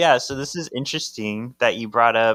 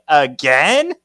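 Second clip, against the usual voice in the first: exasperated; 5 semitones higher, 9 dB louder than usual. Retold or imitated. Leo exasperated.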